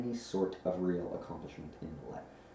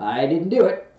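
loud, raised protest; defensive Pooh; 8 semitones higher, 12 dB louder than usual. A narrator's reading. Bear thinks he is blamed, loudly defensive. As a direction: deny it in a flustered bear voice. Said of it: "said Pooh".

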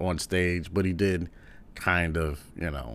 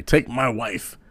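a touch higher, punching please louder; light imitation of an old one-liner; Rodney Dangerfield one-liner; 5 semitones higher, 5 dB louder, much slower than usual. Comedian quotes the classic joke with a hint of the voice. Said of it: "That was always his thing".

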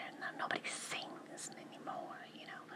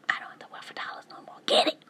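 whispering; 8 dB louder than usual. Real, not acted. Whispers through most of her talk.

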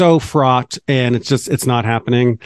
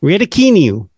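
hammed-up British Raducanu, pitched up; British accent; 5 semitones higher than usual. Shown as a demonstration. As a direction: say Raducanu like a Brit, playful. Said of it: "That's my British accent".

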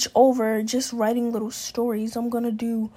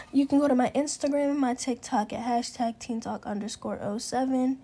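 out of breath; 3 dB quieter than usual. Real, not acted. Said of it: "Whew, I need to catch my breath".

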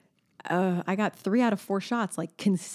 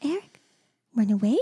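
put-on toddler quote. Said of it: "so she kept saying".

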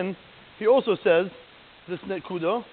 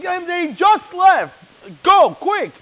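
urgent hurry-along; 10 semitones higher, 9 dB louder, much slower than usual. Retold or imitated. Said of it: "So she's like".

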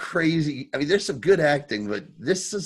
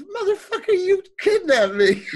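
mock angry Jax; 6 dB louder than usual. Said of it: "and he goes".

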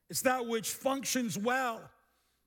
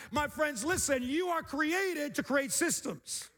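raised, drawn-out exhortation; rousing preaching; 5 semitones higher, slower than usual. Real, not acted. Preacher urging friends to create systems, rousing preaching. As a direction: lift the pitch and stretch the key words. Climax of a sermon list.

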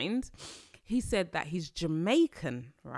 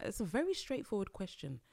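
exasperated inner voice; 6 semitones higher than usual. Retold or imitated. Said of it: "I'm like".

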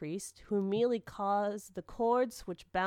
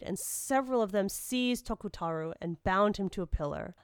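plain reading voice

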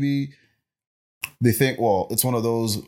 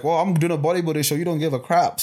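higher-pitched, mildly aggrieved protest; retold indignant complaint; 6 semitones higher than usual. Daughter complaining to mom about being ignored, mildly indignant. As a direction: act out feeling overlooked.

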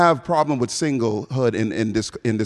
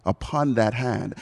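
slow, lightly theatrical verse; dramatic Shakespeare quote; slower than usual. Acted. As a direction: linger over the line like a stage lover. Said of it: "he said".

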